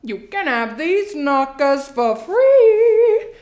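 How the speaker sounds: chatty Long Island mother telling all; dramatic housewife with drawn-out punchlines; Sheila, Long Island housewife. Acted. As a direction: play a confiding, theatrical suburban mom. Plays monologue housewife Sheila.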